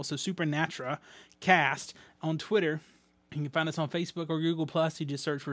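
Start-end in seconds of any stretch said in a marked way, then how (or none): 0.0-1.0 Supernatra said with no L, su-per-nat-ra; Supernatra, the handle without its L; no L spelling. Shown as a demonstration. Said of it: "with no L".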